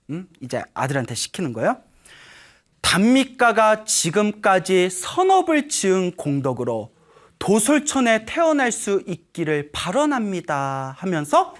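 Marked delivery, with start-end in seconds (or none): 2.8-10.9 slow, measured recitation; lightly acted ceremonial declaration; solemn vow. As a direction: pronounce it slowly as a prayer.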